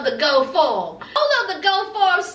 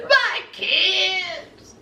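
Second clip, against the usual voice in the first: hammed-up wail, climbing much higher; mock crying; 6 semitones higher, much slower than usual. Son cries to his mama about his kids, mock crying. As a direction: imitate a tearful father wailing. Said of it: "he starts crying, and he says".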